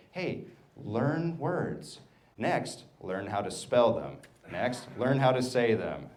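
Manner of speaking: slow, spaced-out instructions; patient grown-up drilling a child; teaching a small child. Acted. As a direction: say it slowly, step by step for a kid. Acted adult teaching a child words.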